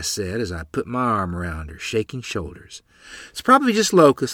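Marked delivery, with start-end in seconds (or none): 3.3-4.3 hasty reassurance. Acted. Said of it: "trying to reassure both her and me".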